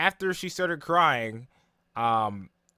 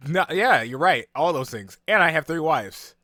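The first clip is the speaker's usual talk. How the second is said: bold boast; 3 semitones higher, 8 dB louder than usual. Retold or imitated. Uzui boasting to demon.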